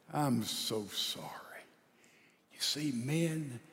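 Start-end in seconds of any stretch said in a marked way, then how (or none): 0.1-1.3 low, hushed, tender apology; whispered apology. Acted. Husband kneels before his wife with rose, whispered apology. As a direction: nearly whisper it, humbly.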